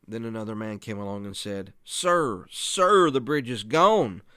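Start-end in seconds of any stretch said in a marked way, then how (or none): 1.8-4.2 loud, high, urgent cry of warning; earnest warning. Acted. Man warns a traveler the bridge is out, earnest and urgent. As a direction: call out to stop him, drawing out "gone". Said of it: "Convinced by the earnest voice".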